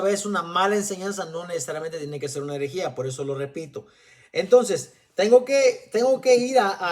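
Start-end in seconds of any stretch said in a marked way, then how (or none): 4.3-6.9 énfasis fuerte. Real, not acted. Predicador recalca con fuerza.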